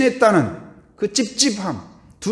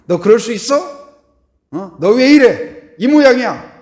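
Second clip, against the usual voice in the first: loud, high, exasperated scolding; angry outburst; 6 semitones higher, 8 dB louder than usual. Retold or imitated. Angry person confronting someone, shouting and scolding. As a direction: let the anger burst out at them.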